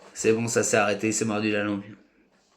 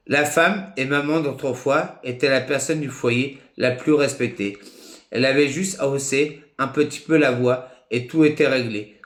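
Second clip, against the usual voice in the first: measured, phrase-by-phrase declamation; deliberate spoken-word reading; written text recitation. Acted. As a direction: recite it like a homemade poem, pausing between phrases.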